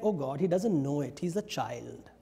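low, softening, indulgent aside; indulgent, not angry. Acted. Goddess excusing the demon as a child, mildly indulgent. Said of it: "that goddess is not angry with him".

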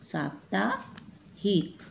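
साप्ताहिक said very slowly and softly, saap-taa-hik, with a long "आ" in "सा"; careful pronunciation. Shown as a demonstration. Teacher modelling the correct word for the children, slow. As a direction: draw out साप्ताहिक syllable by syllable. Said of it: "श में आ हो जाएगा".

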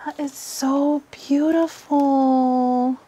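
slow, awestruck admiration; drawn-out awe. Real, not acted. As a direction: stretch it out slowly in wonder. Awed by the cloth.

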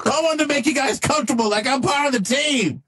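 friendly AI sidekick. Acted. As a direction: explain yourself like a chummy cartoon AI. Plays Leroy the AI sidekick.

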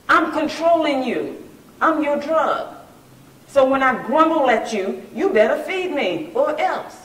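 high, loud, drawn-out threat; bossy body. Acted. The body orders its owner to feed it, bossy. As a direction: lay down the law as the demanding body. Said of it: "Your body is telling you".

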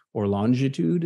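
"longitude" with a broad "lahn" first syllable; own pronunciation. Shown as a demonstration. Geographer telling students his own "longitude". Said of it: "as I would say".

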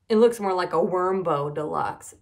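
loud playful taunt; teasing. A narrator's reading. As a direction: tease a classmate about it. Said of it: "teased Buster".

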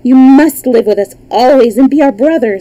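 excited little princess voice; gushing princess. A narrator's reading. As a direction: insist on it with adoring enthusiasm. Princesses fawn over the boy.

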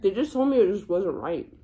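hushed unvoiced whisper. Real, not acted. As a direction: say it in a whisper, barely audible. Whispered reply.

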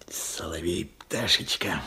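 whispered endearment. Acted. Old man whispers fondly to the songbird. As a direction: whisper to the bird.

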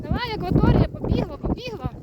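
high-pitched cries urging the horse on; excited urging. Real, not acted. Rider urging the horse to catch up, excited calling. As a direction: call out high, egging them on to gallop.

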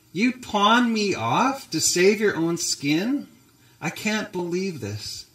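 hurt Sarah. Acted. Wife confronting Abraham for saving his own skin, mildly hurt. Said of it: "Looks like she's almost traumatized".

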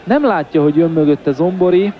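hungarian sports commentary. Real, not acted. Live football play-by-play.

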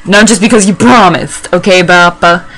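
hammed-up telling-off of dad; mock indignant rant. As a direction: argue back at your father, playfully heated. Acted quarrel with gym-leader dad.

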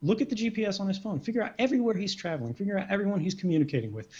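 lightly acted, brisk and obliging; breezily agreeable. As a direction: rattle off approval as a mock-willing official. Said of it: "will quite happily say".

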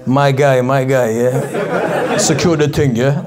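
a hint of a laddish gym guy. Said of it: "that's how gym guys speak".

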